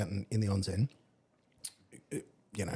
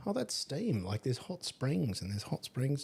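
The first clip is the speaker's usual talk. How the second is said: retold surprise; 5 semitones higher, slower than usual. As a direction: replay the puzzled discovery, starting high. Retelling his puzzled discovery on mountain.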